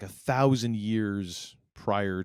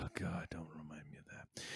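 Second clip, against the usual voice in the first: hushed, breathy aside; whisper; 5 semitones lower, 18 dB quieter than usual. Real, not acted. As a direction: whisper it like a pained groan. Groaning at a reminder.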